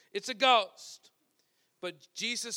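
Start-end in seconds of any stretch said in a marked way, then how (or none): 0.1-1.1 louder, slow, booming declaration; booming slow repeat. Retold or imitated. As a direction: boom it out slowly to the whole room. Preacher repeating the ghost cry.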